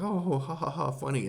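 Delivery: high, loud fake ha ha; imitating a careless audience laugh; hammed-up chuckle before the blow; mock laughing. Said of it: "you're laughing and it's like".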